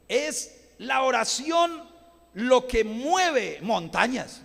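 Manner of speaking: slow, loud, drawn-out proclamation; preaching emphasis. Real, not acted. Preacher stressing prayer to the congregation, loud and slow. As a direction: lean on it like a pulpit cry.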